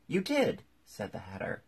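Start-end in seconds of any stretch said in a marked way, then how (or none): 0.1-0.6 loud, high contradiction; high-pitched squabbling shout; quarrelling retort. A narrator's reading. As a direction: throw the accusation straight back. Hatter and Hare quarrel in court.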